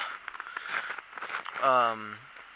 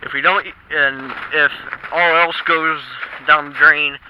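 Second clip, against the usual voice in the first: shouting over wind; 5 dB louder than usual. Real, not acted. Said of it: "hopefully you can hear me over the wind".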